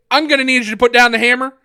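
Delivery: loud, brisk imitated police order; mock official radio announcement; cop over the radio. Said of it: "over, over the radio".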